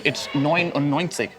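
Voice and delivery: slow German "neunundneunzig" spelled out; German pronunciation. Shown as a demonstration. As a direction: say "neunundneunzig" slowly, as nine-and-ninety. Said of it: "In German".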